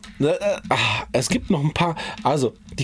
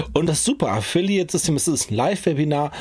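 redet mit Bonbon im Mund. Real, not acted. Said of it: "ich hab auch einen Bonbon im Mund". (leicht undeutlich mit Bonbon im Mund)

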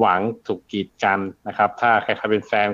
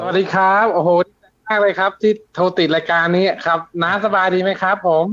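higher, eager call-in listener voice; excited radio caller; 6 semitones higher than usual. Pretend. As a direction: play a thrilled caller who finally got through.

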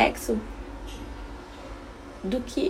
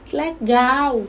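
put-on praising child; 4 semitones higher, slower than usual. Shown as a demonstration. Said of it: "quando meu filho faz uma coisa muito legal, eu falo".

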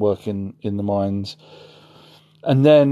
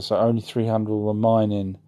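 ordinary talk

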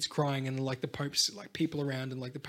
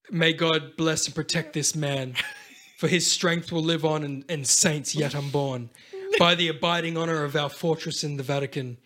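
mock priest blessing.

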